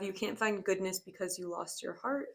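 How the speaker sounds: reads "heart" with a cheerful lift, like good news; upbeat, as if the message were a compliment; positive tone. Real, not acted. Tarot reader cheerfully reading a harsh card line to viewers, upbeat. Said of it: "I said that, like, with such a positive tone".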